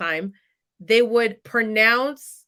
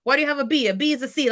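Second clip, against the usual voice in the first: lightly voiced critical father, pitched higher; mildly critical questioning, raised pitch; critical dad; 5 semitones higher, faster than usual. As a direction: pick at each grade like a demanding dad. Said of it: "my dad was always critical on that".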